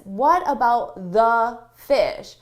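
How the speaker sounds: slow, concerned; concerned objection. Shown as a demonstration. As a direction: voice the fish as a worry.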